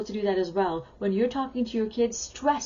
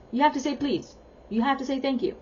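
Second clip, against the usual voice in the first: mock scolding; 3 semitones higher, faster than usual. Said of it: "it just looks like you're scolding them".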